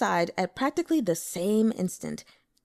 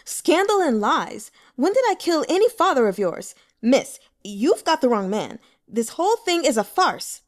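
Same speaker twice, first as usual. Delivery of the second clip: louder, higher indignant rebuttal; scowling denial; 6 semitones higher, 6 dB louder than usual. Acted. Accused broker scowling as he denies the murder, indignant. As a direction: dismiss her charge with contempt. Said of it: "Wen Liang scowled".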